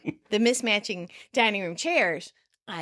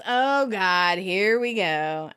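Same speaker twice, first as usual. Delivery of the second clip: mock lament, louder then drawn out; exasperated retold lament; 4 dB louder, much slower than usual. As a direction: groan it like here comes trouble. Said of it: "Ross laments".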